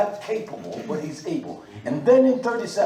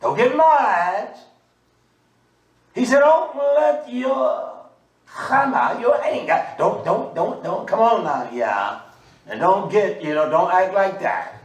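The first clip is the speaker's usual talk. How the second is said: a hint of Gideon pleading, slowed and raised; 3 semitones higher, 4 dB louder than usual. Gideon begging God not to be angry, lightly pleading. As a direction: coax God not to get mad, lightly voiced. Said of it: "This is how he's talking".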